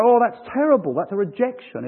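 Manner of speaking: high-pitched, exaggerated complaint; hammed-up dismay, starting high; mock frustration. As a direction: act out someone taking it badly. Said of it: "not get all frustrated and go".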